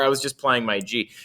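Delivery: clueless student. Acted. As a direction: imitate a student making a lame excuse. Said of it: "then the students go".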